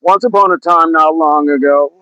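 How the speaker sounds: lightly imitated storytelling rap opening; a rapper. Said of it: "sound like the beginning of a rapper".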